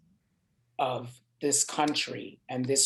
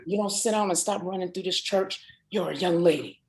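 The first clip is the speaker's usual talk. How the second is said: mock church grandmother scolding; 4 semitones higher, 3 dB louder than usual. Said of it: "the things she used to tell me".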